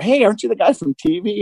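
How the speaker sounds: lightly acted curious stranger; imitated fellow patient. Patient recognizing the TV man in detox, lightly acted curiosity.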